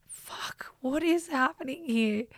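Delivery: high, hushed whisper of alarm; retold panicky whisper; whispered inner panic. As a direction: whisper it like a panicked private thought.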